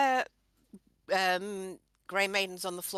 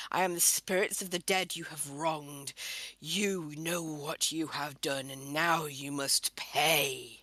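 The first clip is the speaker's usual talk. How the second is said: ghostly voice; 2 semitones lower than usual. Acted. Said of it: "call out in the most ghostly voice that I can".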